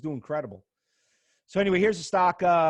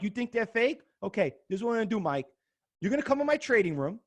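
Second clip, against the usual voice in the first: mock confrontation; 3 dB louder than usual. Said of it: "that's another thing people say".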